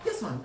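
"Yes, mom" quoted back like an unsure question; mimicked questioning reply. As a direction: imitate a doubtful "Yes, mom". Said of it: "the yes mom was like".

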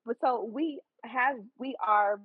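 halting, stumbling start; stuttering. Real, not acted. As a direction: trip over the words. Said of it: "I'm stuttering".

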